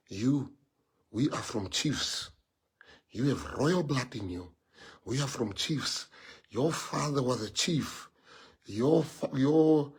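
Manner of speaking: a lightly voiced mother; proud mother. Mother telling her son of chiefs, soft and slow. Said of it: "my mom will say".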